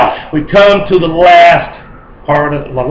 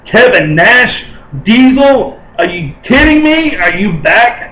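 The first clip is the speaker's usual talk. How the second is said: disbelief; 4 semitones higher, slower than usual. Real, not acted. Wrestling fan reacting to Diesel's comeback, incredulous. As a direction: voice climbing much higher, incredulous.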